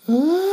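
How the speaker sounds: high loud yell of falling; falling scream. Acted. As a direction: scream as you drop. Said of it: "as Lumpy yelled".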